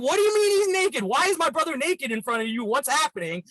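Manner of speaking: mock alarm, starting high and easing down; retold freaking out. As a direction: imitate an incredulous brother on the phone. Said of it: "so he's freaking out".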